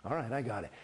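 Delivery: low, even, steady acknowledgement; good drill acknowledgement. Shown as a demonstration. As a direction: give a calm, contained acknowledgement. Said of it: "that was good T Rs".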